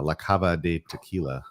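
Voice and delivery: La Cava de Tequila in a light Spanish accent. Shown as a demonstration. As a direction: roll it out the Spanish way. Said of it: "my Spanish accent".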